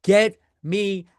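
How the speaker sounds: loud, desperate plea, slowing at the end; inner scream. Retold or imitated. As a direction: yell it like your insides are screaming to leave. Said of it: "the inside of my body is screaming".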